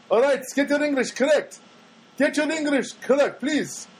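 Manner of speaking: high-pitched mock reprimand; mock scolding. Teasing the audience about grammar, high mock scold. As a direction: scold the listener in a shrill, put-on voice.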